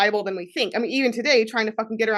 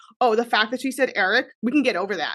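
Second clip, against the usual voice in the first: airy, unbothered, offhand and dismissive tone. Recreating how he brushed off a remark, mock-dismissive tone. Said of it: "he's so dismissive. Literally, this is the tone. I'm trying to recreate it".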